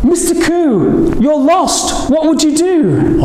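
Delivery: loud, high theatrical plea; mock urgency. Host asks Mister Koo about being lost, mock urgent. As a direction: throw the question out in pretend alarm. Host poses pretend emergency.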